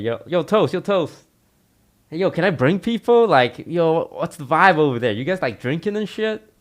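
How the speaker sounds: high, eager bro voice; hyped party bro. Retold or imitated. Tarek asking to bring people over, high eager bro voice. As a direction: hype up the invite.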